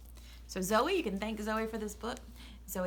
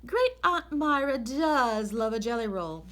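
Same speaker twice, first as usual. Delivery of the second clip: bossy lady of the house, much higher and brisk; Mrs Rogers; 8 semitones higher, 4 dB louder than usual. Acted. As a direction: read out the chore list as the fussy employer. Mrs Rogers gives chores.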